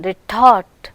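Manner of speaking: "Retort" with a puff on the second t-syllable; aspirated t. Shown as a demonstration. Teacher showing stressed syllable in retort, t aspirated. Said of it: "hear the aspiration on the stressed syllable".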